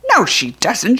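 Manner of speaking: loud shouted denial; goblin shout. Acted. First goblin contradicting Kirsty, loud shout. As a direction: shout him down. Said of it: "shouted the first goblin".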